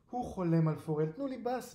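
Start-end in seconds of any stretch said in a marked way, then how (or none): 1.1-1.7 high, pleading cat wail; high-pitched wail for food. A narrator's reading. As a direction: beg like a hungry, whining cat. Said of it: "מיילל".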